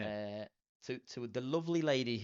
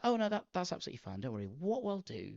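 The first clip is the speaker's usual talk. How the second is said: high, quick, bright-toned receptionist reassurance, hammed up; mock receptionist; 9 semitones higher, 4 dB louder, faster than usual. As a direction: reassure the caller like a perfect concierge. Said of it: "she was like".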